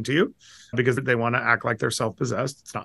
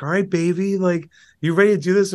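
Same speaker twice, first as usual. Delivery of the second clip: higher, lightly voiced wife; imitating his wife; 6 semitones higher, 3 dB louder than usual. Wife waking him at five, lightly imitated, higher. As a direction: cheerfully rouse him like his wife would. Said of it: "my wife turns to me and she's like".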